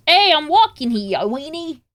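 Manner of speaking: a mock New York Bronx tough guy with a bad accent. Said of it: "try and do a Bronx accent".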